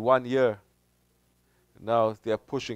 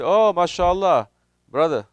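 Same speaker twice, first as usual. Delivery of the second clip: mock welcome; 6 semitones higher, 5 dB louder than usual. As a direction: greet the newcomer with loaded sweetness.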